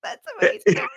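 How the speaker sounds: high, loud burst of amazement; amazed. Real, not acted. Host marvels at the healing story, high amazed burst. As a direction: let the wonder burst out high.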